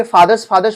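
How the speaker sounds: फादर्स ending in a hissed "s"; students' "faadars" for फादर्स; common mispronunciation. Retold or imitated. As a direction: say फादर्स with final "s" instead of "z". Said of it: "इसको actual में pronounce क्या करते हैं".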